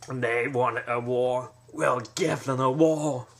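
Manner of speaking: lightly voiced Godfather, deliberate and slow; Godfather boss voice. Mob boss addressing his crew, slow and menacing. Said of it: "and he's going".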